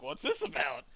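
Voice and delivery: a hint of a low celebrity impersonation; Billy D Williams. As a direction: guess at his voice, pitched a bit low. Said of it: "I don't know what he actually sounds like".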